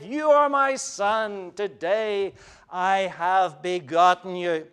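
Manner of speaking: slow, proud declaration; proud father. Acted. The Father declaring his Son with proud delight. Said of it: "you can hear the pride in that voice".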